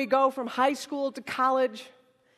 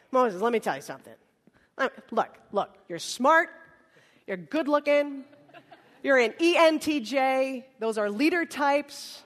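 pep talk. Acted. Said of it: "a little pep talk".

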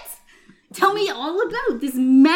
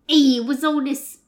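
put-on British accent. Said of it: "Nope, that's British".

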